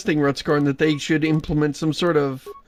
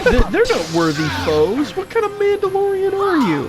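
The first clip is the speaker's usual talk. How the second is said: indignant warrior voice; 7 semitones higher, 4 dB louder, faster than usual. Retold or imitated. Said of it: "He's like".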